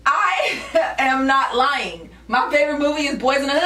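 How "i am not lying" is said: drawn-out denial through a laugh; slow laughing denial. Real, not acted. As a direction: stretch each word, laughing.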